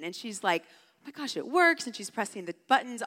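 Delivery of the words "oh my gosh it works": put-on high, thrilled little-kid voice; high-pitched mock excitement; imitating excited child. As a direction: act out a small girl's delighted amazement. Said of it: "she's so excited".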